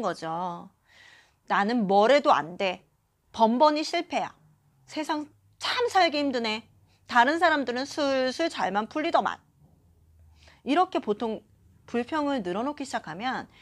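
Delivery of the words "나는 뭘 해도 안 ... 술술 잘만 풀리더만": mock complaint, lightly put-upon; grumbling. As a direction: act out someone lamenting their bad luck. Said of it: "사람들이 이런 푸념을 이야기하는". (푸념하듯 투덜대는 말투)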